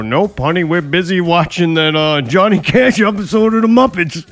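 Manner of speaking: breezy put-on voice declining an invite; lightly voiced dismissive coworker; mock dismissive voice.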